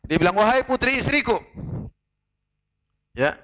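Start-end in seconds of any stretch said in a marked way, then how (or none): 0.4-1.4 mildly angry father, voice lifted; higher-pitched imitation of a cross father; retold anger. Angry father addresses daughter as his wife's child, mild mock anger. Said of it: "Abu Bakar lagi marah".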